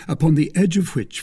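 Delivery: ordinary delivery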